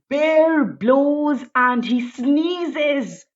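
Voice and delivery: slow, rhythmic storybook verse; drawn-out picture book narration; slow rhyming read-aloud. A narrator's reading. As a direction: savour each rhyming line slowly.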